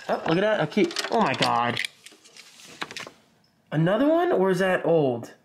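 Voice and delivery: talking through a mask; muffled by a face mask; muffled behind mask. Real, not acted. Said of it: "I sound so bad with this mask on".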